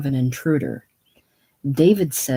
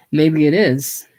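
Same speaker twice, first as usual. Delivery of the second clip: laughing lightly at himself; 6 dB louder than usual. Acted. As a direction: chuckle it, self-mocking. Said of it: "laughs lightly at himself".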